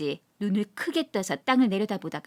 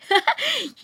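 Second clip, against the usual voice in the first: high tipsy laugh that falls; drunken laugh; 11 semitones higher, 4 dB louder than usual. Acted. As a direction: laugh loudly at his own luck. Drunk laughs mid-boast. (술 취한 높은 웃음)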